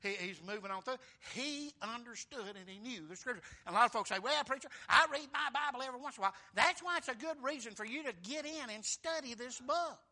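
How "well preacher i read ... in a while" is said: quick, offhand quote of a lax churchgoer; breezy mock reply; mock churchgoer excuse. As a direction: toss it off like a lazy excuse. Folks quoted by preacher, mocking.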